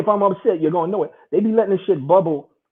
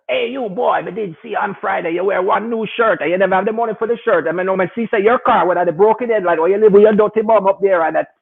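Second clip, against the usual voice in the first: raised, rapid-fire accusing voice; detailed accuser; 3 semitones higher than usual. Retold or imitated. Mimicking the friend turned lawyer over his wrench. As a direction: list every detail like a lawyer. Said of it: "Now the guy know all the details".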